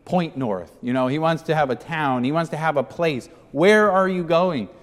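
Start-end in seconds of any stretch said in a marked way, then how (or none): 3.5-4.7 slow, louder, higher question; pleading demand. Acted. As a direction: stretch it out, pressing Jesus. Peter's question, emphasized.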